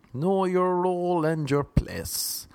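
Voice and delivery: high, slow, drawn-out order; mock scolding, stretched out high; scolding put-down. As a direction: put them firmly in their place. Critics scolding him for success.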